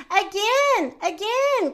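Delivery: gleeful storybook plea; excited cry. A narrator's reading. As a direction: beg playfully for another go. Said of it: "cried cat and dog and pig and duck".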